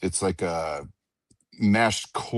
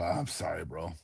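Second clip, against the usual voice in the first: retold sheepish apology; 3 semitones lower, 11 dB quieter than usual.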